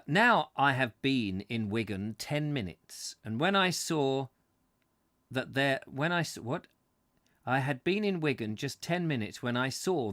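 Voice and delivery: measured, emphatic book reading; story narration. A narrator's reading. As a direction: read the prose out with deliberate phrasing. Reads book aloud to listeners.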